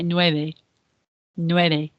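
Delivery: "nueve" with a subtle b, not a v; gentle b sound in the middle of "nueve"; soft b in nueve. Shown as a demonstration. Teacher models "nueve" with a soft b for pupils. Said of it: "It's not a V".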